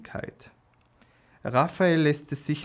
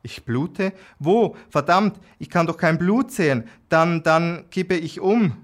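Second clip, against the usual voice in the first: higher, louder, rushing alarm; panicked; 5 semitones higher, 5 dB louder than usual. A narrator's reading. Injured man realising he is bleeding, panicking, higher and louder. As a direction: voice shoots up in sudden panic.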